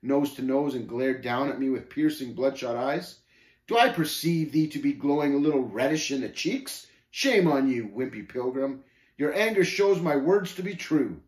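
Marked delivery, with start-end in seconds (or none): 3.7-11.2 raised, goading mockery; lightly voiced scornful Shame, taunting. Shame seeing the pilgrim's anger, taunting. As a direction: needle a reddening opponent.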